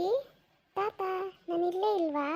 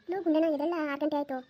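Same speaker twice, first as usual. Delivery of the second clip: put-on village grandmother calling the boy awake; lightly voiced grandma calling out; faster than usual. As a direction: call him up from the next room. Wakes grandson, calls him.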